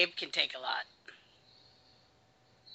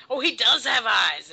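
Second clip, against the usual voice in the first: high, loud, drawn-out amazement; mock amazed reaction; 7 semitones higher, 8 dB louder than usual. Host voices an amazed onlooker, drawn-out surprise. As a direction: act astonished, slow and loud.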